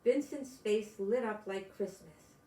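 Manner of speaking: gentle storybook reading; picture book read aloud to kids; story narration. A narrator's reading. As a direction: read it to small children, unhurried.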